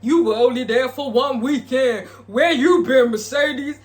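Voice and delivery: hammed-up scolding; mock confrontation. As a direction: mimic someone calling another person out loudly. Acting out an angry challenge.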